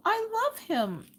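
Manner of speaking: very high, drawn-out mock whimper; imitating tearful child. Tearful daughter defends her bear to mom, imitated slow whimper. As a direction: stretch it out in a tiny upset child voice. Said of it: "little tears are falling".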